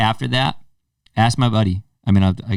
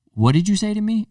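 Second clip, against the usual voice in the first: high mocking imitation of a defiant teen; pitched-up taunting teen voice; mock challenge; 11 semitones higher than usual. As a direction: mimic the kid squaring up, pitched way up. Stepson challenging, retold.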